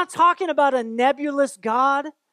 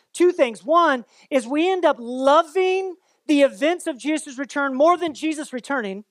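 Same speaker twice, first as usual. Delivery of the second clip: ordinary talk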